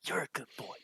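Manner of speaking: high sing-song praise for a dog; doggy baby talk. Pretend. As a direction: coo at the dog like a pet.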